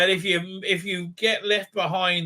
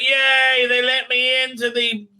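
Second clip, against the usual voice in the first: mock glee; 5 semitones higher than usual. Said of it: "And she's like".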